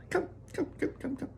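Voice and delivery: quick hushed high beckoning; hushed urging. Acted. Wonka beckons the group to the screen, hushed. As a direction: wave them over in a whisper.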